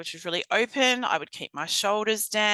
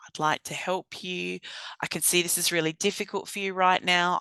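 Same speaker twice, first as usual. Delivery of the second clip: calm validating voice. Shown as a demonstration. Trainer demoing empathy to an upset client, calm and reassuring. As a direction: soothe an upset person, sincerely. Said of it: "Often all people need to hear is you go".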